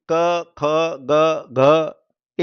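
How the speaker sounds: क, ख, ग, घ recited one by one, each with a held vowel; consonant group demo. Shown as a demonstration. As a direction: sound out क, ख, ग, घ as separate syllables from one place. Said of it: "एक ही जगह से प्रोनाउंस होता है". (क, ख, ग, घ का अलग-अलग उच्चारण करके दिखाना)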